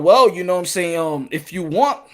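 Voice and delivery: very low, soft evasive executive; Al Heyman. Acted. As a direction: hedge quietly, way down in the voice. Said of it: "Al Heyman's like".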